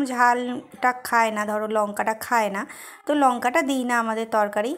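chewing while talking; speaking between bites; mouth full. Real, not acted. Seen 4: hand-fed bite at 2.4-2.8, then chews while speaking.

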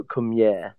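Welsh "Come yeah", here said as yeah; Welsh accent. Shown as a demonstration. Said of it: "if you do the Welsh accent".

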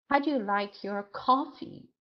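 coffee given the weight of the question; teacher demo, coffee stressed. Shown as a demonstration. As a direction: lean on the word coffee, say the rest lighter. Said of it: "So stress is on coffee".

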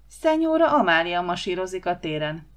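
mock-grand proclamation; solemn announcement. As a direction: announce her like a dignitary arriving. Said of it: "ünnepi hangon".

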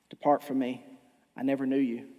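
Jesus judging. Acted. Jesus judging at Judgment Day.

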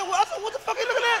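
mock confrontation. Confronting the wife.

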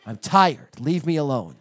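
mock adult tantrum. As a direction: throw a hammed-up tantrum. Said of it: "grumpy and adult tantrums".

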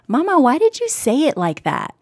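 lightly voiced little daughter challenging her mother; a hint of a questioning child; small child questioning. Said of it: "like, three or two".

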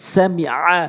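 "সামিআ" ending on a squeezed-throat ain; correct ain. Shown as a demonstration. Teacher showing learners the ain, throaty ending on "সামিআ". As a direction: constrict the throat for the final vowel of "সামিআ". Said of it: "আইন উচ্চারণ করবেন সঠিকভাবে".

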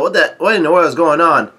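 mock yell of bewilderment; mild retold yell. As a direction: call it out, baffled, at moderate volume. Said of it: "Chiffin yells out".

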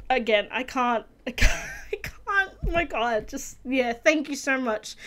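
barely holding it together, real; quiet, overcome with emotion; choked up, real. Real, not acted. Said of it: "I had to take a moment there".

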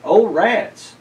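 a pained high yelp; flinching in pain. A narrator's reading. Old man hurt after the crash, pained yelp. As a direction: yelp as the foot hurts. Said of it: "he flinched".

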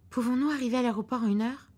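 worried about the flight; wife anxiously asking the driver; anxious question. Acted.

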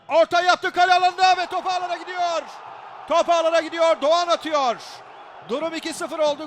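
high, loud goal shout; shouted goal call. Real, not acted. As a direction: yell the goal like a live commentator. Goal scored, commentator calls it. (heyecanla bağırılan gol anonsu)

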